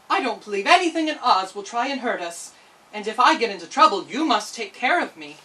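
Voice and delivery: put-on cheerful girl reassuring her dog; Dorothy.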